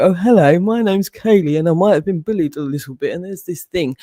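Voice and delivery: lightly voiced timid self-introduction; a hint of a meek schoolgirl; mock meek victim. Mocking how she won't walk in timidly. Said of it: "I'm not gonna rock up and go".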